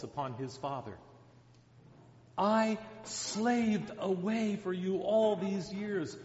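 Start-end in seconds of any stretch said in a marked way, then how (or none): 2.4-6.2 bitter complaint. Retold or imitated. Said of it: "heaped some huge insults".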